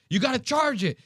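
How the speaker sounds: high-pitched mock instructor command; hammed-up drill order; imitated yelled order. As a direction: yell it like an exasperated firearms trainer. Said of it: "yelling, like, order after order".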